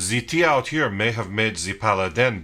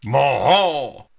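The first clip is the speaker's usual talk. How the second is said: put-on French accent; 3 dB louder than usual. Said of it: "In a French accent".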